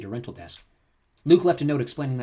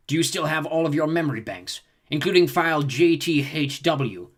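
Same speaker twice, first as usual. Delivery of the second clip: slow, higher, sly villain questioning; scheming Hutt voice; 4 semitones higher, 5 dB louder than usual. Acted. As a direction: ask it like a plotting crime lord. Zorba questions the droid.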